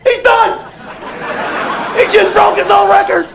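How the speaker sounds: high, excited record-breaking call; rodeo announcer. Acted. Dad celebrating speedy diaper change, mock rodeo announcer shout. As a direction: crow it like a rodeo commentator. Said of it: "I was like a rodeo cowboy".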